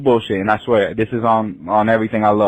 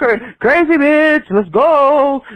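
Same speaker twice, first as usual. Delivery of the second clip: high, drawn-out friendly call; nice calling out; 11 semitones higher, much slower than usual. Retold or imitated. Retelling trying to fetch drunk friend, nice high call. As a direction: coax her along from a distance. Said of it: "I'm being nice at first".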